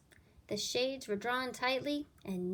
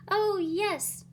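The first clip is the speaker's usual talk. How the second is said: high, loud delighted yes; kids cheering; 10 semitones higher, 7 dB louder than usual. Acted. Kids agreeing to story hour, excited cry. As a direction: shout with joy. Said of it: "cried the kids".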